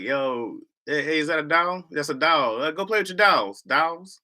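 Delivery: "doll" said like "tall" with an open aw vowel; Midwest doll. Shown as a demonstration. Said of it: "I, I'm like".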